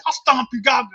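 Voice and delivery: loud threat at barking dogs; angry threat. Retold or imitated. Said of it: "I start stomping at 'em like".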